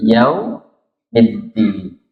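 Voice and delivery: slow "yaumiddin", the w rounded into u; au gliding to u. Shown as a demonstration. Teacher correcting the reading, slow "yaumiddin" with u. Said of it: "tapi u".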